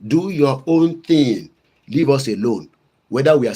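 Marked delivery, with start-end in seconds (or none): 0.1-1.5 each word slow and weighted; slow emphatic. Shown as a demonstration. Quoting his sister, slow and emphatic. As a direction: lean on every word of Do your own thing. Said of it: "like my sister Shoya Koribe will say".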